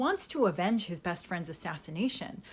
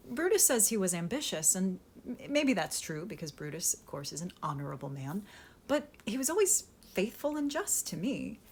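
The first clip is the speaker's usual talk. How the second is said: sly Antony paraphrase. Acted. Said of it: "he's basically saying".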